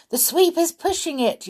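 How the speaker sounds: high, loud excited yell. Acted. Binky yells to the watching gnome villagers, high and loud. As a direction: yell it out while dancing about. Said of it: "yelled Binky".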